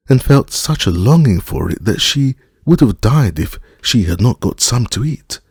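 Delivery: terrified husband excusing himself; pleading husband. A narrator's reading. Frightened man begs for mercy.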